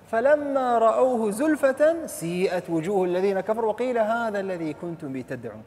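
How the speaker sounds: measured Arabic verse recitation; Quran recitation. Acted. Preacher reciting the next verse to listeners, Quran recitation. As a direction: recite the verse in a sustained, flowing line.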